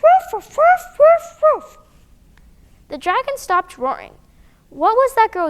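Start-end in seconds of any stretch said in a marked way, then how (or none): 0.0-1.8 high loud barking woofs; dog language. Acted. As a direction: bark like a brave little dog. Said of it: "best dog language you can manage".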